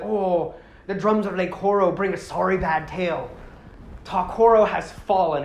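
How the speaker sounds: lightly put-on Irish accent. Toa reads the drums' bad news, mild Irish accent. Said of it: "they would just make them have Irish accents".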